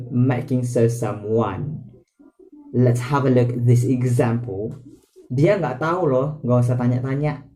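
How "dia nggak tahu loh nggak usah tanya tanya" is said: rapid, mildly irritated telling-off; annoyed. Shown as a demonstration. Teacher defends a friend from questions, mildly annoyed. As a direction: say it quickly with a touch of annoyance. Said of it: "You are annoyed".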